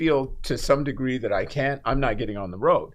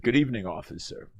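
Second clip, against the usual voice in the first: a hint of a smooth radio announcer, a bit quick; lightly put-on polished radio voice, quieter and quick; best radio voice; 3 semitones lower, 5 dB quieter than usual. To the officer who pulled him over, in a mild mock radio voice. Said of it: "I did in my best radio voice".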